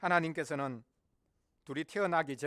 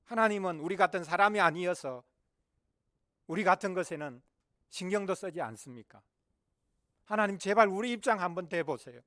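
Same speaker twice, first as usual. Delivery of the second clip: raised, exasperated plea; crying out; 4 semitones higher, 6 dB louder than usual. Acted. Believers in hardship crying to God, exasperated pleading. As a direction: protest louder and higher, begging to be heard. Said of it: "외칠 때가 있지 않습니까".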